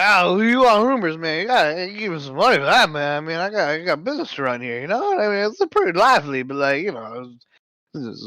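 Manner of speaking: put-on rambling drunk tavern keeper. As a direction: play a tipsy barkeep haggling for coin. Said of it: "Can I have that in non-drunk".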